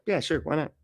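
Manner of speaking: high, casual mock Musk; lightly voiced offhand Musk; mock shrugging Musk. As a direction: agree lazily, why not.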